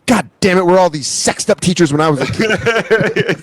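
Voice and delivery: hammed-up exasperated outburst; furioso. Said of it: "He's furious".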